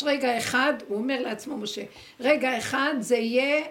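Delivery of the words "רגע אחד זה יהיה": startled Moses. Acted.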